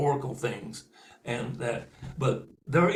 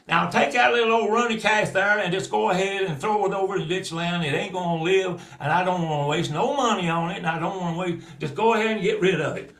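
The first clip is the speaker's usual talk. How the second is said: uncle hollering; 4 semitones higher, 5 dB louder than usual. Acted. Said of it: "he hollered back at the foreman".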